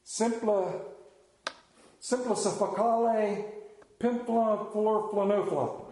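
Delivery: slow, pompous fake Latin; mock fancy Latin. Shown as a demonstration. Preacher showing off fake Latin to the congregation, mock pompous. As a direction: put on airs with made-up Latin words. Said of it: "show you how educated I am with these fancy words".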